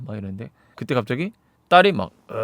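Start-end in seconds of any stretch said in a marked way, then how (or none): 2.3-2.3 imitated low-effort zombie moan; zombie groan.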